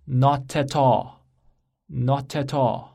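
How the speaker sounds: very slow, linked "not at all"; repeat-after-me demo; slow model reading. Shown as a demonstration. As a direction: say it slowly for students to repeat. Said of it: "大家跟我读".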